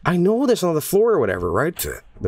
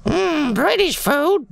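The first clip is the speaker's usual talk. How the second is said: high, slow, hammed-up posh British foodie; jokey high-pitched British TV chef voice; mock British accent; 10 semitones higher, slower than usual. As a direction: play a mock Gordon Ramsay-style British taster. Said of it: "Gordon Ramsay once did a segment".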